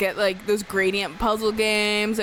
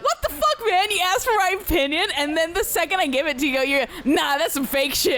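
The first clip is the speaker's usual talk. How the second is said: much higher, incredulous mock rant; exasperated disbelief; 9 semitones higher than usual. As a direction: squeal out the outrage at being doubted. Retelling friend doubting her.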